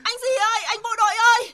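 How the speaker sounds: high, urgent holler to a soldier; desperate calling out. Acted. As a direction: call frantically up the slope. Trapped woman calls to soldier.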